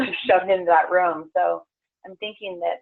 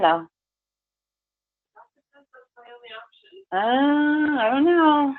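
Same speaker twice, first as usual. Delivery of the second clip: steady, soothing meditation guide; guided grounding meditation. Acted. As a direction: lead them gently into the ground.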